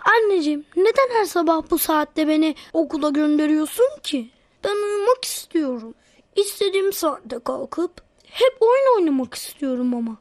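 fed-up morning complaint; grumbling. Acted. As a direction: whine to mum about the daily grind. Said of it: "Söylenme bakayım".

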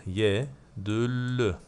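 Yedüllü stretched very slowly, syllable by syllable; very slow repeat. Shown as a demonstration. Teacher repeating the word for the student, very slowly. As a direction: spell it out slowly with your voice. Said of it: "Delalet ediyor".

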